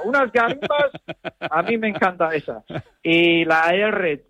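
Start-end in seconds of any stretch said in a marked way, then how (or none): 0.0-0.9 lightly Canarian-flavoured "garimbas", said higher; Canarian word. Shown as a demonstration. El hablante presume de una palabra canaria, con un toque de acento canario. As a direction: savour "tomarme unas garimbas" like a local. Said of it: "otra palabra canaria que me gusta".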